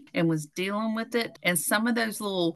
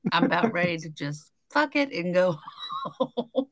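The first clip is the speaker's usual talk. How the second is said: breaking into laughter; 4 dB quieter than usual. Retold or imitated. Laughs through own retold line.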